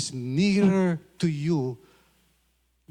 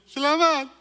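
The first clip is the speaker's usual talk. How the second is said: excited thanks; 7 semitones higher, 5 dB louder than usual. Retold or imitated. Receiving chocolate, excited thanks.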